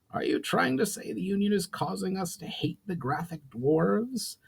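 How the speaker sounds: a proud goblin lord laying down terms; goblin chief Brawl. Acted. Brawl asks skeptically.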